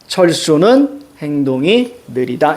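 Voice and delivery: slow reading with „철수는“ set apart before „행동이 느리다“; richtige Satzgliederung. Shown as a demonstration. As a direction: pause after „철수는“, then unhurried „행동이 느리다“. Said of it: "이렇게 해서".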